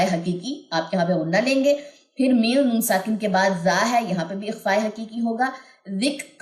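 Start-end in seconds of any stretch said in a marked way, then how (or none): 5.9-6.4 soft ذک with air on the k; breathy kaf. Shown as a demonstration. Teacher demonstrating hams on ذک. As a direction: let breath escape on the k of ذک. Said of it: "کاف کے اندر ہمس ہوتی ہے".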